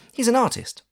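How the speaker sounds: fond aunt introducing the resident artist; proud aunt. A narrator's reading. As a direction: boast about the house genius. Aunt explains.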